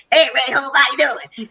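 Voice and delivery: put-on light Georgia accent greeting. Co-founder calling her on the phone, light Georgia accent. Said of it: "in his Georgia accent".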